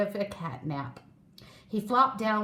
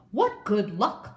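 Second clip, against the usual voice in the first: hopeful thought; 3 dB louder than usual. Acted. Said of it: "thought the giraffe".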